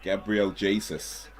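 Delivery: "Jesus" said as JAY-suss; commentators' pronunciation. Retold or imitated. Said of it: "first I've heard it pronounced that way".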